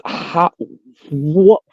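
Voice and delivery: ordinary talk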